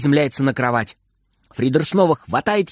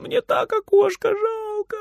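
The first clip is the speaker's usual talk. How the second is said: sobbing. Acted. Frieder sobbing against grandma's apron. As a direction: sob her name into her apron. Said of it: "всхлипывает он".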